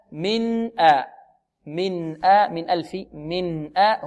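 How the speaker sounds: slow "من آ", full n then a clean hamza; clear still n. Shown as a demonstration. Teacher drills the parallel example, clear n. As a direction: sound the n of "من" steadily before "آ". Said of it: "نقول".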